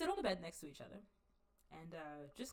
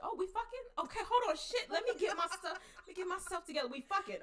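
high, laughing mock eagerness; hammed-up eager scramble, laughing through it; 7 semitones higher than usual. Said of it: "as an invitation".

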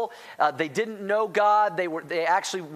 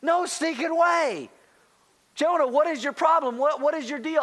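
incredulous outburst; 7 semitones higher than usual. Retold or imitated. Preacher mocking his own shock at Jonah, incredulous and high. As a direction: throw up your hands: no stinking way. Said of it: "I'm like".

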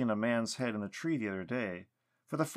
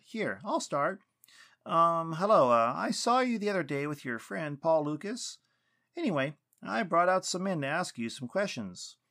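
higher, tentative address to an unseen listener; lightly acted awkward introduction, pitched up; lightly voiced Weston; 7 semitones higher, 4 dB louder than usual. A narrator's reading. Weston addressing the silent knot in the tree, tentative.

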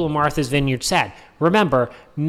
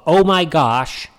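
mock elite liberal; 3 semitones lower than usual. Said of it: "classic Democrat dog whistle of".

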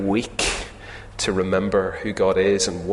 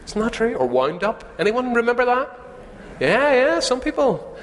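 eager to congregation; 13 semitones higher than usual. Real, not acted. Asks congregation to recall.

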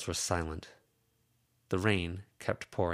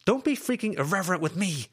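sharp, louder, higher angry retort; 12 semitones higher, 5 dB louder, faster than usual. Acted. Lucy snapping at Verona, angry and raised. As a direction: bite back at her, angry and raised. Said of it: "angry, shaking her head".

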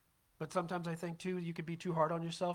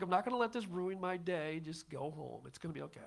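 calming self-talk. Retold or imitated. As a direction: talk yourself down gently. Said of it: "I was like".

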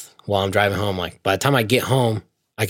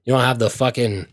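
louder, higher, heated complaining; retold parts-counter rant; 3 semitones higher, 4 dB louder than usual. Ranting to his friend about the pricey filters, hammed-up indignant. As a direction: vent at the clerk like you're fed up.

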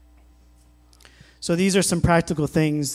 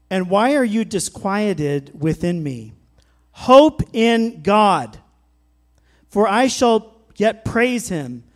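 pleading psalm reading. Retold or imitated. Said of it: "He says".

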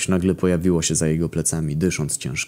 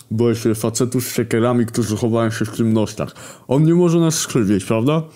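scared; 5 semitones higher than usual. A narrator's reading. Zaraza scared in dark room.

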